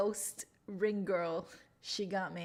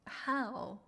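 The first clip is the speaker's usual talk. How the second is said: high, exasperated disbelief; bewildered, higher-pitched questioning; incredulous; 5 semitones higher than usual. Real, not acted. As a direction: ask it high-pitched, utterly baffled. Baffled by flat earth believers.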